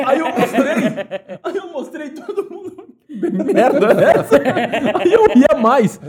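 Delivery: high-pitched helpless laughter through the words; laughing hard. Real, not acted. Retelling an uncontrollable giggle fit to the host, laughing hard. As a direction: tell it while cracking up. Contando a crise de riso, rindo.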